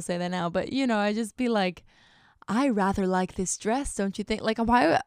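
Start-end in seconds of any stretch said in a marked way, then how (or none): 2.5-4.4 lightly put-on British old lady accent; mock-proper British lady making polite conversation. Imitating her teenage posts, old British lady accent. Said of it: "I was talking like an old British lady".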